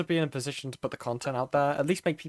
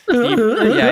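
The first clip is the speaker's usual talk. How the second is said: cracking voice; 12 semitones higher, 14 dB louder than usual. Real, not acted. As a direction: voice cracking mid-word. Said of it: "voice crack".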